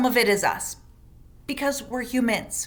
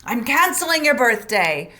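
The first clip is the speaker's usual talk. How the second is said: mock threat. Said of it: "we say things like".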